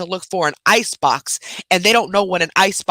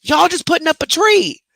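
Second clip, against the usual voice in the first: exasperated mom; 10 semitones higher than usual. Retold or imitated. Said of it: "I'm like".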